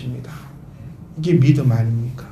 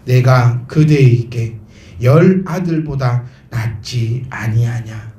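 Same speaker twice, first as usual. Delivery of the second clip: tender husband; 5 semitones lower, slower than usual. Acted. Husband's tender words quoted.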